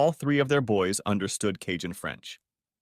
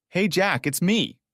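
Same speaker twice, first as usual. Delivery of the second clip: higher, sweet purr; ex-wife sweet-talking him on the phone, higher purr; 8 semitones higher, slower than usual. Acted. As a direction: purr it to win him over. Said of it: "she purred".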